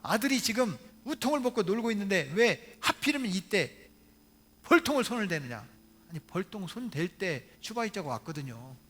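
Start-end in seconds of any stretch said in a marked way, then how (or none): 0.0-5.7 acting out a mildly angry mother telling off her husband; lightly raised scolding voice, retold; wife berating husband in a mock telling-off. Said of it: "아빠 목사님을 막 혼내는 거예요".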